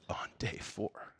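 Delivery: slow, hushed whisper on day four. Acted. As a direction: drop to a breathy hush, slowing down. Preacher whispers Jesus weeping.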